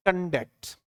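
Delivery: कंडक्ट with stress on the second syllable, kən-DUCT; verb pronunciation. Shown as a demonstration. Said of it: "इसका सही pronunciation जो है वो है". (कंडक्ट को क्रिया की तरह, दूसरे सिलेबल पर ज़ोर देकर)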